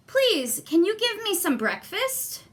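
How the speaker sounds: put-on pleading boy. Jack politely begs woman.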